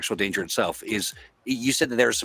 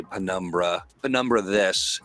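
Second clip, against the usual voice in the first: eye-rolling scorn; 3 semitones lower than usual. Acted. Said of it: "roll my eyes and say".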